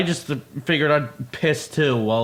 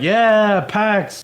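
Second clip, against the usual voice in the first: rowdy cheer back; 5 semitones higher than usual. Retold or imitated. Man answering a stranger's toast, rowdy cheer.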